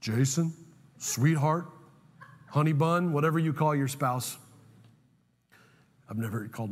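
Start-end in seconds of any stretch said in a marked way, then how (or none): 0.0-3.1 lightly deepen it like Darth Vader on the phone; James Earl Jones voice. Retold or imitated. Wife on the phone, lightly voiced as James Earl Jones. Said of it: "the voice of James Earl Jones said".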